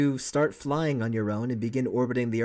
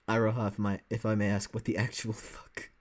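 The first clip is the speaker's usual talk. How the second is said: quoting Mikado's deadpan politeness; a hint of Mikado's dry courtesy; Mikado line; 3 semitones lower, 5 dB quieter than usual. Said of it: "what was that Mikado line?".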